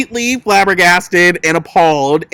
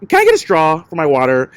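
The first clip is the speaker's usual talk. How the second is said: fast, breezy and indifferent; careless daughter; faster than usual. Retold or imitated. Daughter ignoring her sobbing mom, breezy indifferent ask. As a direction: ask like nothing is happening. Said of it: "She's like".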